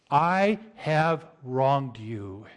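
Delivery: slow, humble, earnest admission; sincere apology. Shown as a demonstration. Pastor showing his flock a sincere confession, slow and humble. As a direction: own the wrong slowly and simply. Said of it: "give you another statement instead".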